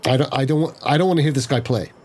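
slightly overdramatic, a little brittle; a mild attempt at a cracking voice. Player voicing a character who won't hear him play, slightly brittle. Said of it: "in a slightly overdramatic, brittle voice that cracks".

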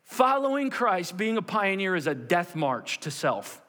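forceful, slowed declaration; emphatic preaching. Real, not acted. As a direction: proclaim it, then bring it down. Preacher drives home the point.

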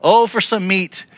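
lightly hammed-up whine; mock whining cry. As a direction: cry out for meat like a spoiled crowd. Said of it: "This is them crying out to God".

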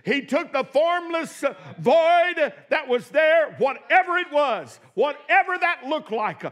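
rising, shouted preaching cadence; preaching at full force. Acted. Preacher stirring the congregation, shouting praise. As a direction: build the fire of the sermon to a cry.

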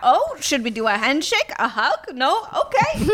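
hesitant, questioning awkward guest; tentative, pitch climbing to a squeaky okay. Acted. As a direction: fumble through an uncertain greeting. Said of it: "act very awkwardly while they're bowing".

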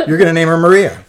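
holding back tears. Real, not acted. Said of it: "I'll try not to cry".

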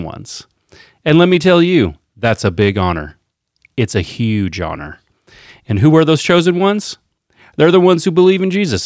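mock campaign-speech cadence, pitch lifting on key phrases; Donald Trump. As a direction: lightly imitate a politician selling it to the crowd. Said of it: "read it with his cadence".

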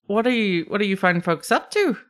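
curious, lightly voiced Scottish lilt; kobold Scottish brogue. Kobold asks the party's business, curious Scottish lilt. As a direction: inquire politely in a mild brogue. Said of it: "Scottish brogue".

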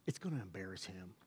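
unvoiced whisper, pleading; whispered plea. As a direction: whisper it so nobody hears. Secret plea to God.

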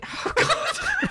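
breaking into giggles; can't stop laughing. Real, not acted. Giggling fit over name.

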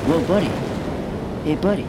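loud laid-back surfer bro; surfer dude. Acted. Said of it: "the surfer voices".

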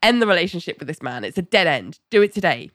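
brisk, matter-of-fact imitation of a blunt therapist; very direct. Therapist telling Ali to end it, very direct. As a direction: deliver the verdict with no softening. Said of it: "very directly is just like".

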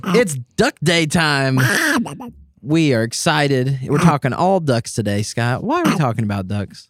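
put-on announcer voice. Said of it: "I wish I could talk that way".

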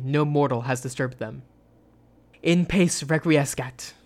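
measured, dark storytelling read; steady gothic narrator; story narration. A narrator's reading.

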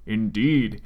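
put-on solemn Japanese accent. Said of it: "in a Japanese accent".

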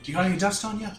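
a hint of a zany Robin Williams bit. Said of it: "Robin Williams".

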